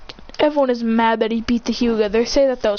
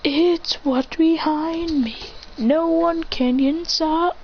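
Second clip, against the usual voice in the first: slow, higher menacing villain; slow menacing hero line, pitched up; 6 semitones higher, slower than usual. Acted. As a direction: drag it out like a boss villain. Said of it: "and says".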